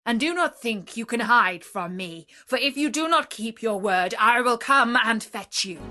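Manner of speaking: loud orders, rising to a threat; commanding beast. Acted. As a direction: warn him he cannot hide. Beast gives the merchant orders.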